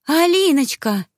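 high, loud, drawn-out cry of delight; overjoyed reunion cry; joyful squeal. Acted. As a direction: squeal her name as you run to her. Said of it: "с визгом бросилась навстречу сестре".

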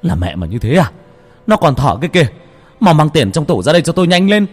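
sharp, snapping anger. A narrator's reading. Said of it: "ông sẵn giọng". (gắt gỏng giận dữ)

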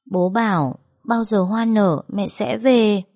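lightly voiced small child, slow; child's voice. Little son tells mother what dad promised, childlike and slow. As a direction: say it slowly, like a hopeful little boy. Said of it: "con đã bảo".

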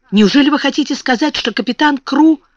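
high, fast incredulous question; shocked, rushed disbelief; stunned disbelief. Acted. Miss Minchin stunned by news.

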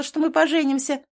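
"поженимся" high and loud; shouted claim. A narrator's reading. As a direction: insist on "поженимся". Girlfriend shouting her claim.

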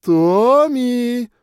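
loud, high call across a hall; woman calling. A narrator's reading. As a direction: call your son from far off. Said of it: "позвали из зала женским голосом".

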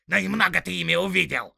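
loud, high orc grumble; grumbling orc retort. Acted. Tracker sneering back at the big orc, loud. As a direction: snap back a sneering jab. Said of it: "проворчал Первый".

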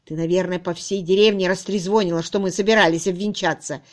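usual speaking voice

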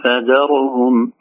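فذرهم, slow, ra bounced; wrong qalqala on ra. Shown as a demonstration. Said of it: "لا نقول".

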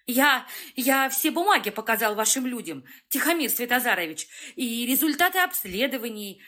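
nervous and stammering, words tripping; a scared doctor tripping over every word; stumbling frightened. Acted. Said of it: "спотыкаясь на каждом слове, говорил врач".

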